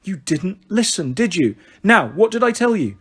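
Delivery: measured scolding, rising in pitch; mildly exasperated mum; sighing mother. Acted. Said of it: "Mother shook her head and sighed".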